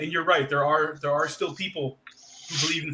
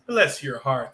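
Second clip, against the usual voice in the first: sarcastic dig; much slower than usual. Retold or imitated. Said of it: "They're being like, "F off".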